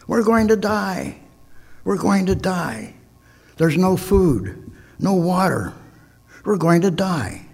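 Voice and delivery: mock panicked yelling. A narrator's reading. Shipwrecked man panicking to his companion, mock high yelling. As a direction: play the castaway losing it. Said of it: "started screaming and yelling".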